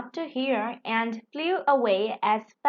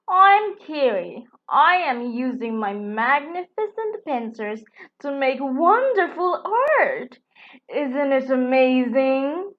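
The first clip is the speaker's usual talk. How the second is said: proud beetle; 2 semitones higher, 4 dB louder than usual. Acted. Proud beetle introduces himself.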